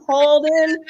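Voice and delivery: mother yelling for her son to come upstairs, urgent call. Retold or imitated. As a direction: shout his name up the stairs. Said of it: "I screamed my son's name".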